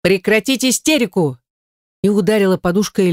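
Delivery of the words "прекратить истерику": higher, sharp command to stop the whining; mock-stern barked order. A narrator's reading. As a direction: snap them out of it. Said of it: "рявкнула".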